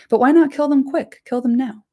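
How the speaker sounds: impatient orc pushing to kill the prisoners, loud. Acted. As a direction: snap it out like a greedy orc who wants blood now. Orcs quarreling over prisoners.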